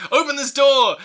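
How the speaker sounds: loud barked order; shouting. Retold or imitated. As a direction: yell it at the guard. Richter yelling at guard.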